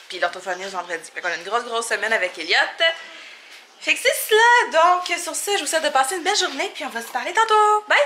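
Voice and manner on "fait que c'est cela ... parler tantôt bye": high, sing-song goodbye; cheery sign-off. Real, not acted. Vlogger wishing viewers a lovely day, cheery sign-off. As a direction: chirp a bubbly farewell, much higher.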